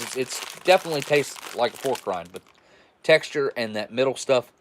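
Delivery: talking while crunching chips; chewing and lip smacking between words. Real, not acted. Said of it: "Excuse my crunching and smacking of my lips".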